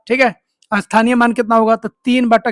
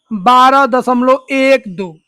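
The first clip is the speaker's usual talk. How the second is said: slow reading demo; much slower than usual. Shown as a demonstration. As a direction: slowly spell out बारह दशमलव एक दो, digit by digit. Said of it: "इसको क्या पढ़ेंगे?".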